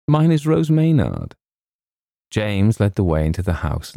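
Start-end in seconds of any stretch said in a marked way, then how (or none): 0.1-1.3 put-on high, louder girlish introduction; girl's voice. A narrator's reading. Girl introduces herself to James, in a high girlish voice.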